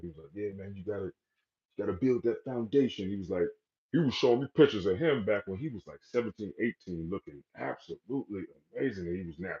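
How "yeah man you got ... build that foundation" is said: put-on strong, heavy New York accent. Retelling what a man from New York told him, heavy New York accent. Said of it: "he got that heavy accent".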